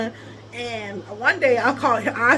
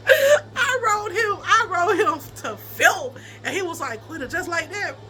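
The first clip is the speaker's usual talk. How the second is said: cracking up through the words; can barely get it out for laughing; wheezing with laughter; laughing hard; 5 semitones higher than usual. Real, not acted. Laughing hard retelling breakup.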